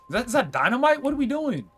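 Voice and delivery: high-pitched, loud startled outburst; alarmed disbelief. Real, not acted. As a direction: blurt it out, voice shooting way up. Spots dynamite while playing.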